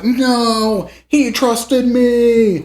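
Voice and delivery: high, stretched-out mock wail; mock crash out. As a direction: draw it out in hammed-up anguish. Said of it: "has a crash out".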